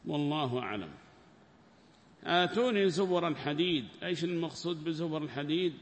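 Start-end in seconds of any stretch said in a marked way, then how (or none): 2.2-3.8 raised, louder Quranic chant of آتوني; verse recitation. Acted. Teacher recites the verse to his students, chanted.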